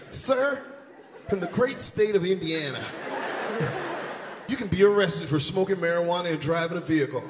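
lecturing officer. Retold or imitated. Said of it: "Let me lecture these niggas".

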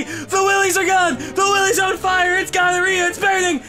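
very high, loud enraged yelling; furious screaming. Real, not acted. Gamer screaming at a teammate who split him. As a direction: scream at the traitor.

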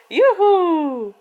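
high whoop of joy; a bright happy juhu; cheer. Real, not acted. Mother cheers with her playing baby, high whoop.

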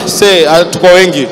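low, loud, lazy rebel's reply; mock sigh. Congregation told to answer, low mocking reply.

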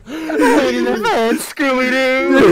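slow, high quote through laughter; laughing mimic. Friend quoting the clip while laughing. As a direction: repeat the line while cracking up.

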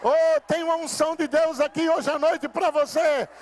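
rousing revival preacher at full cry; full-force preaching. Real, not acted. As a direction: preach it to the rafters.

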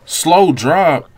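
high and loud alarm; high, loud alarmed shout; alarmed yell. Real, not acted. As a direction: call it out in a startled panic. Dogs attacking, alarmed.

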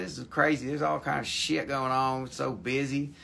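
a country bumpkin voice, lightly put on; hammed-up hillbilly drawl. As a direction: play a rowdy rural hick hosting the show. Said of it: "talk funny".

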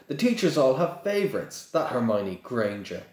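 high whiny complaint; sulky boy. Acted. Boy complaining about teachers to father, whiny. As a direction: grumble like a spoiled pupil.

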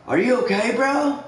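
high, rising worried coworker voice; mock-concerned buddy checking on you. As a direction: voice him going up high in alarm.

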